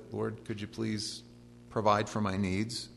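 hushed, slow humble plea; soft slow prayer. Retold or imitated. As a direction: pray it softly and slowly.

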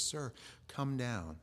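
soft, slow plea; a hushed, slow desperate plea; quiet begging. Acted. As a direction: beg him quietly and slowly. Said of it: "and he's begging".

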